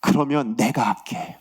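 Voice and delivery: low, slow reassurance as God; God's promise. Retold or imitated. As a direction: drop down to promise it steadily. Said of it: "그렇게 말씀하시더라고요".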